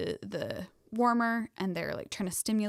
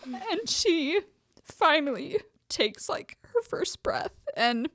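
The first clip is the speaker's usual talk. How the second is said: higher voice breaking with tears, slow; tearful; 10 semitones higher, 5 dB louder, slower than usual. Real, not acted. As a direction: choke up with real gratitude. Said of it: "No, no, no".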